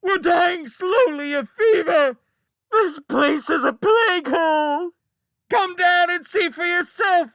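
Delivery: child screaming mock-obedient cries. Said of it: "howled back louder than ever".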